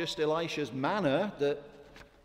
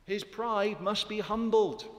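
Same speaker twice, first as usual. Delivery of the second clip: higher, louder and slow, every word pressed; emphatic preaching; 6 semitones higher, 6 dB louder, slower than usual. Real, not acted. Preacher pressing the lesson on his friends, louder and slow. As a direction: drive the point home. Preacher drives home the point.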